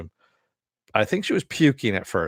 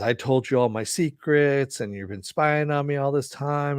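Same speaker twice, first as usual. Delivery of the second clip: higher-pitched, mildly agitated accusation; retold freak-out; 5 semitones higher than usual. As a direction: act out his outburst without shouting. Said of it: "Jason freaks out".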